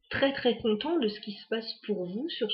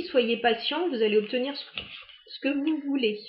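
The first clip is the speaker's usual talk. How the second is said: holding back a hiccup mid-sentence; suppressing hiccups; 4 semitones higher than usual. Real, not acted. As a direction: speak through hiccups, catching them. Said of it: "j'ai le hoquet".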